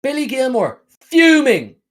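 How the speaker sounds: high taunting call; gloating cheer. Real, not acted. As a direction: rub it in, loud. Gloating again.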